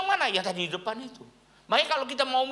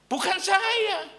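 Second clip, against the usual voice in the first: lightly voiced retort; 13 semitones higher, 5 dB louder, much slower than usual. Pastor retorts on the phone.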